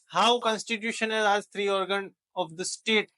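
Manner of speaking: very slow, each word spaced out; slow teacher dictation to students. Shown as a demonstration. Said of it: "teacher dictating slowly".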